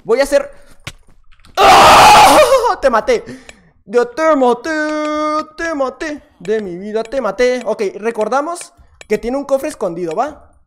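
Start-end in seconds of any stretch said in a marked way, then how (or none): 1.6-2.8 very high, very loud laughing scream of victory; triumphant scream. Real, not acted. Gamer just killed the enemy, a wild laughing triumphant scream. 2.8-7.6 louder, excited gloating. Real, not acted. Gamer gloating at the enemy he killed, excited and loud.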